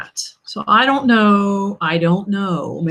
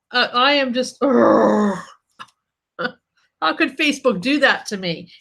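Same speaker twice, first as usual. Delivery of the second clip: mock crying; 2 semitones higher than usual. Fake-crying about Facebook.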